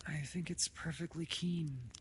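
high, taut, restrained voice. A narrator's reading. Father answering the severe doctor, tautly.

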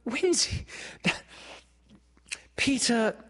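high, keyed-up call; excited. A narrator's reading. Wendy interrupting Peter, high and excited. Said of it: "said Wendy excitedly".

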